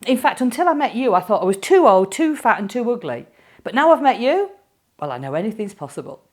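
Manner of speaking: high-pitched breathless fan gushing; gushing admirer. Retold or imitated. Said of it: "this woman come running up to me".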